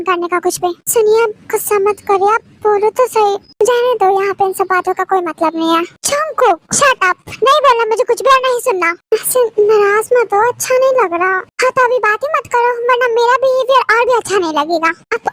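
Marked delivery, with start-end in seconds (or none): 6.1-8.9 fast, heated refusal; angry outburst. Acted. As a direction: cut him off in anger. Lovers' quarrel, she snaps. (गुस्से में तेज़ी से)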